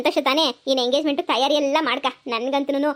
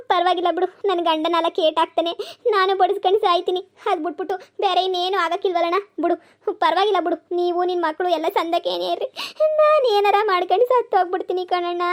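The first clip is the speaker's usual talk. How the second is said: higher-pitched tearful threat, rising at the end; crying and wailing; 4 semitones higher than usual. Acted. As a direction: wail that you'll die rather than bear it. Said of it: "ಒತ್ಕೊಂಡು, ಕೂಗಾಡ್ಕೊಂಡು ಮಾಡ್ತೀಯಾ?".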